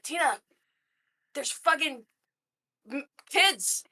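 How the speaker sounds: high, laughing scolding coworker; exasperated coworker. Retold or imitated. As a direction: scold her about the kids.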